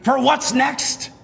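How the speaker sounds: hype host voice. Acted. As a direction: build up the excitement. Hyping up the game.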